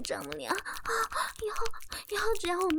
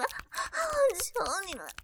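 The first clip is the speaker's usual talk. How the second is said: slow, fading plea at her usual pitch; begging; much slower than usual. Acted. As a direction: let the plea sink and trail off. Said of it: "放过我". (低落拖长的哀求)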